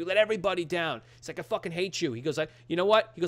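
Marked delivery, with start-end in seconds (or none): 0.0-1.0 raised, higher-pitched imitation of angry accusations; laying into him. Retold son blaming his father, heated scolding. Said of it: "he just laces into him". 1.4-2.1 higher-pitched retold outburst; laying into him. Retold son lashing out at his father, mildly heated. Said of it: "he just laces into him". 2.4-3.1 raised, higher-pitched imitation of angry accusations; laying into him. Retold son blaming his father, heated scolding. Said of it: "he just laces into him".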